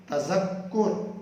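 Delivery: تذکر said very slowly with each syllable drawn out; تذکر spoken slowly, as in Arabic; correct Arabic pronunciation. Shown as a demonstration. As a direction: carefully sound out تذکر. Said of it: "یہ لفظ ہے".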